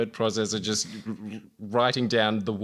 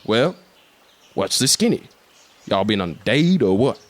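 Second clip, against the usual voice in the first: put-on Robert Downey Jr accent. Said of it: "Can I do the accent".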